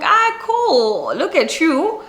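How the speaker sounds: high, delighted exclamation; impressed. Retold or imitated. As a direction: gush in admiration. Impressed reply.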